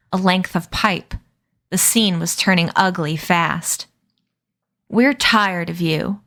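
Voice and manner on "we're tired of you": slow, bored drawl; can't be bothered threat; slow lazy menace. Acted. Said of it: "in a lazy drawl".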